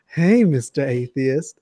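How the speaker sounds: slow, hammed-up seductive greeting; host demonstrating a mock sexy greeting, slow. Shown as a demonstration. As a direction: purr it slowly as a joke. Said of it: "like, a real sexy tone".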